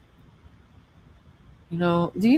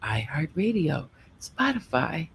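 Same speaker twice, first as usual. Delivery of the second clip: radio voice; 4 dB quieter than usual. Shown as a demonstration. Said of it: "Let me put in my radio voice".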